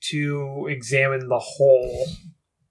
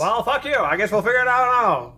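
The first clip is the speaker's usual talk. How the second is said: sarcastic; 8 semitones higher than usual. Real, not acted. Mocking the silent voice.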